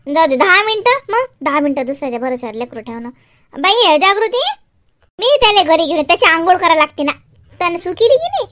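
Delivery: low motherly explaining; Shyam's mother. Acted. Mother tells Jagruti it is nap time, low mother voice.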